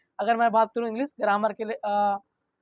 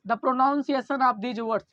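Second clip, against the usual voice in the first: very slow, word by word for notes; slow dictation; much slower than usual. Shown as a demonstration. Teacher dictating slowly to the class for notes. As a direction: read it out slowly so students can write. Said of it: "teacher dictates the definition".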